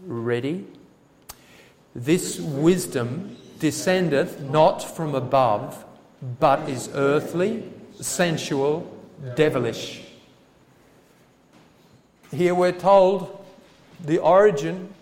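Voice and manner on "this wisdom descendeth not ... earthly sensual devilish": congregation reading aloud together; slow group recitation of scripture; many voices in unison. Real, not acted. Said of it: "Read verse fifteen with me".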